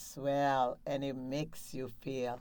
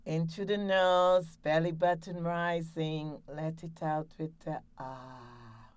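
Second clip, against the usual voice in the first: breathing exercise. Shown as a demonstration. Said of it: "Last one".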